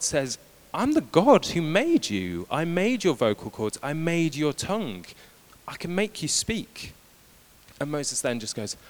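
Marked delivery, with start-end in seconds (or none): 0.7-6.9 booming God voice. Acted. God firmly rebukes Moses.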